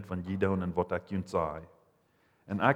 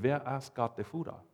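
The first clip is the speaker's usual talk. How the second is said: softer, puzzled question; Philip asking; 4 semitones higher, 5 dB quieter than usual. Retold or imitated. Preacher imitating Philip's puzzled question to Jesus, softly. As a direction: quietly wonder who the Father is. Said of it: "Sozusagen, er sagt".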